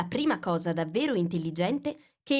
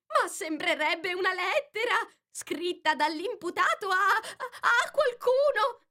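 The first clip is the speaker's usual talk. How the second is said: high, nervous, stammering rabbit; jittery White Rabbit, voice breaking; fluttery rabbit voice; 14 semitones higher than usual. Acted. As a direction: stumble over the words like a flustered rabbit.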